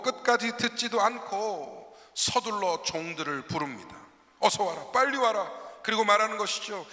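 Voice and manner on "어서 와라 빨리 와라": calling out to the servants to hurry; louder, urgent summons across the house. Retold or imitated. (서두르며 종들을 부르는 다급한 외침)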